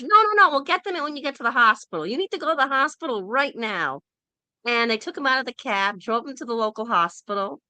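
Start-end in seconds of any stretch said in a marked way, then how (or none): 0.0-4.0 urgent official. Retold or imitated. Border official rushes the sick traveller to the hospital, urgent and high. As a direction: hurry him along like an alarmed guard.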